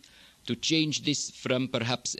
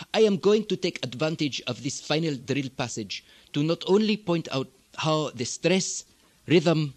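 Egyptian Arabic accent, larynx lowered, pitch kept up; throaty Egyptian Arabic with a lowered voice box. Shown as a demonstration. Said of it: "with a bit more of the throat down".

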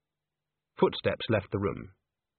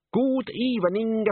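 put-on lightly accented tenor greeting; a touch of an Italian accent; hint of Italian accent; 11 semitones higher, slower than usual. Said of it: "his voice dripping with accent".

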